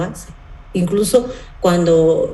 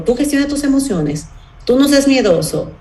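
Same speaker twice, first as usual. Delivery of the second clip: mock scolding parent; 6 semitones higher than usual.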